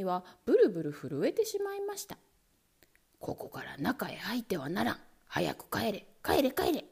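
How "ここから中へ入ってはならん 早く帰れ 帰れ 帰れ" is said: low, thick voice of the ant general; a stern soldier commanding, voiced lightly; deep chesty voice. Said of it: "低い太い声で言いました".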